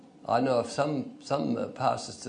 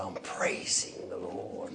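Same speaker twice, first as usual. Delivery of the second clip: put-on French accent; 6 semitones lower, 8 dB quieter, slower than usual. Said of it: "with a French accent".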